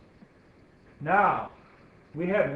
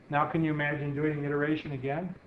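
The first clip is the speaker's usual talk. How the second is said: imagine said with weight, the rest light; stress on imagine. Shown as a demonstration. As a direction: lean on the word imagine so it stands out. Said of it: "on the emphasis on the word imagine".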